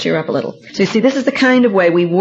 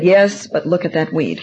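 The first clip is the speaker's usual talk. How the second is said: gloomy son; 4 semitones lower, slower than usual. Retold or imitated. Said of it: "And he said".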